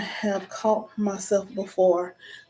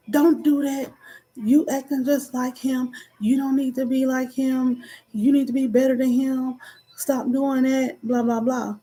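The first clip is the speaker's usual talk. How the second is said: retold scolding; 5 semitones higher than usual. Retold scolding of her child.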